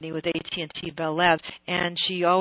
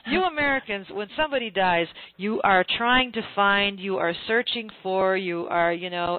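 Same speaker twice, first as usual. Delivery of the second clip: British speaker addressing Americans; 3 semitones higher than usual. Retold or imitated. Oxford author lectures the American on death, mock deliberate delivery. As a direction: lecture them, stretching out each attempt. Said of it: "He says".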